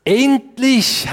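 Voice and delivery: loud, high cry of relief; exclaiming. Acted. Adam cries out on seeing Eve, high exclamation. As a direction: call it out high, at long last. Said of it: "endlich rief Adam aus".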